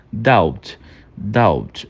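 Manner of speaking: "Doubt" with a barely-there B before the T; B quase mudo. Shown as a demonstration. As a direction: let the B in "Doubt" just brush past. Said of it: "uma entonação bem levinha lá no fundo". ("Doubt" com B bem levinho no fundo)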